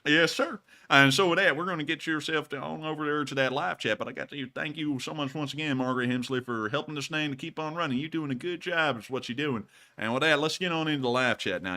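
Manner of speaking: a hint of a Southern good old boy; easy Southern accent, half joking; put-on Southern voice. Sending the chat off in a put-on Southern accent. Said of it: "keep on doing this voice".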